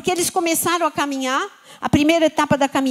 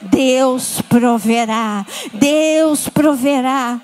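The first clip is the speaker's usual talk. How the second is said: much lower, very slow divine voice; God's answer; 4 semitones lower, much slower than usual. Acted. God answering the troubled believer, deep and slow. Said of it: "E a resposta de Deus".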